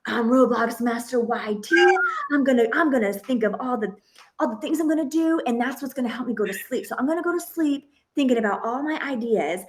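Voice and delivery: a light imitation of an excited boy, quick; excited kid. Son going to bed proud of his channel name, mildly excited. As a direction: lightly voice the eager son at bedtime. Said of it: "he was so excited".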